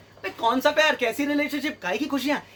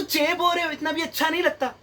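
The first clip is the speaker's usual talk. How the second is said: higher-pitched, lightly mocked rebuff; mock annoyed girlfriend; 4 semitones higher than usual. Girlfriend complaining about being hugged, mock annoyed. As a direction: imitate her brushing him off, pitched up. Imitates girlfriend rejecting a hug.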